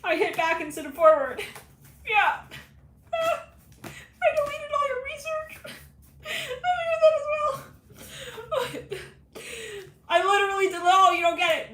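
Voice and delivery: very high, loud crying wail; panicked wailing confession. Acted. Intern confesses deleting research, high loud crying wail. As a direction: wail the confession like you're falling apart.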